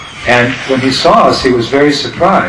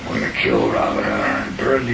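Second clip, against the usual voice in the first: mock boy warrior; 7 dB quieter than usual. Boys' war talk mimicked.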